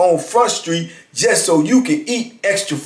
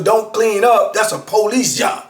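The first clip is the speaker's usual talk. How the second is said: slightly higher mock yell; retold holler; 5 semitones higher than usual. Inmate hollering through the door, mild mock yell. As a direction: lightly repeat his hollered line. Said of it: "Now he hollering".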